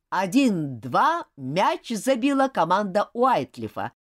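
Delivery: slow, measured announcement; referee announcing. Acted. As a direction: announce the score slowly. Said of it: "объявил судья".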